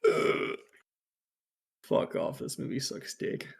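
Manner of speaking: breathy, unvoiced muttering of disgust; whispered grumble. Real, not acted. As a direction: whisper your disgust at the movie. Whispered grumble about the movie.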